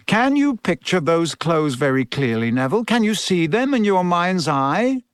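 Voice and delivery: lightly voiced coaching teacher; Professor Lupin. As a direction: guide a pupil with encouraging questions.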